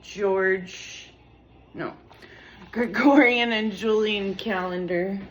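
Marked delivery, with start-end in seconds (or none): 2.7-5.2 louder than she realizes; talking over music in headphones; too loud, headphones on. Real, not acted. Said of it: "hard to talk with headphones on".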